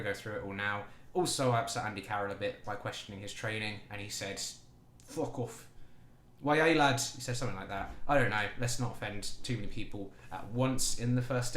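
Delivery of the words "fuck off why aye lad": mock northern English accent, thrown out loudly at the end. Upset Andy Carroll answering criticism of his training, mock northern accent. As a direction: do an offended player with a northern accent. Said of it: "northern accents".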